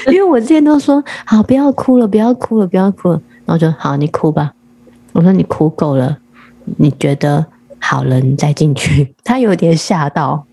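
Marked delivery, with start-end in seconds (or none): 1.3-3.2 retold hurried soothing. Mother trying to stop daughter's crying, retold soothing. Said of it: "我都安慰她". 3.8-4.5 lower, mildly resigned go-ahead; retold resigned permission. Worn-out mother lets daughter cry, retold resignation. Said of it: "我自己也有点疲乏了". 5.3-9.2 lower, calm parental go-ahead; retold calm permission. Mother letting daughter finish crying before school, retold calm. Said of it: "我自己也有点疲乏了".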